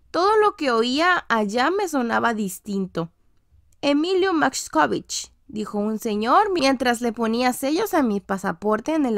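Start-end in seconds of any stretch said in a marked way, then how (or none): 3.8-5.3 "Emilio Maxkovich" slow and a bit higher, as a stranger reads it; foreign official saying the name. Retold or imitated. Passport officer reading the boy's name aloud, slow and foreign-sounding. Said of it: "mi apellido no era Maxkovich".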